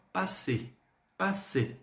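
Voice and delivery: "passer" said slowly as pa-SÉ; French pronunciation. Shown as a demonstration. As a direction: model the French word "passer" clearly. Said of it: "Próximo verbo". (pronúncia francesa de "passer")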